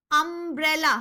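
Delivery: अम्ब्रेला begun on a clear 'uh' vowel; opening 'uh' sound. Shown as a demonstration. Teacher showing the class which sound starts the word, clear 'uh' in अम्ब्रेला. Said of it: "अ का sound आ रहा है".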